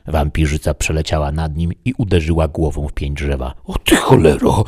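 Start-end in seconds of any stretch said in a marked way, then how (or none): 3.6-4.6 loud, higher cursing outburst; angry curse. Acted. Man grabbing a shovel against the vampire, furious. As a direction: curse at an attacker. Hero attacked by vampire, swears.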